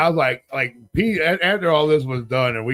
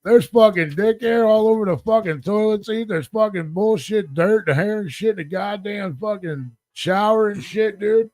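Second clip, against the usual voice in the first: higher-pitched, heated retold rant; indignant hotel complaint; 7 semitones higher than usual. Guest complaining to desk clerk about the filthy room, indignant.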